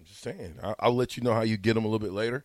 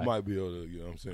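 lower, softer, noncommittal; lightly voiced busy friend; Jay Foreman impression; 5 semitones lower, 7 dB quieter, much faster than usual. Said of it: "my Jay Foreman impression".

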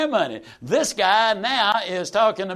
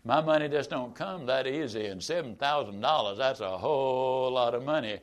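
1 hesitant backpedaling; 4 semitones lower, 5 dB quieter than usual. Retold or imitated. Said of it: "they'll start crawfishing".

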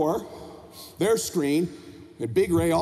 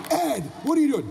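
higher-pitched mock-alarmed wife; protesting mother; 5 semitones higher than usual. Mom objects to husband's order, alarmed.

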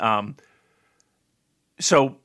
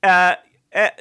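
higher, hesitant student voice asking the teacher; timid student asking; 8 semitones higher, 4 dB louder than usual. Retold or imitated. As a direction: play the eager kid, a bit higher and hesitant. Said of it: "And you'd be like".

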